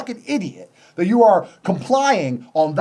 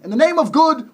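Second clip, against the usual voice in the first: mock pious slogan; 8 semitones higher, 4 dB louder than usual. Mock sanctimonious slogan chant.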